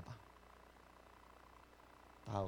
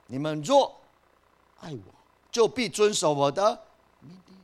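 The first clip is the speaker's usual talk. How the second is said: louder and higher, hammering the verse home; emphatic repeat; 7 semitones higher, 9 dB louder than usual. Shown as a demonstration. Preacher repeating the verse loudly to the church. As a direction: proclaim it like a preacher driving it in. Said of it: "你们若爱我， 就必遵守我的 命令。".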